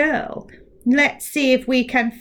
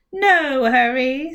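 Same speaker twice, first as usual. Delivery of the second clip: drawn-out gloat; 4 semitones higher, 5 dB louder, much slower than usual. Acted. Mouth gloats.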